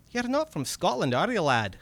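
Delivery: high, excited Scottish goblin; wheedling little red cap creature voice. Acted. Goblin speaks in story.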